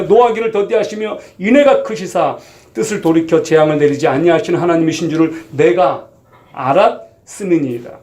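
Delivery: measured reading of a Bible passage; scripture reading. Acted. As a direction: read the verses out to the congregation. Reads scripture. (성경 봉독하듯)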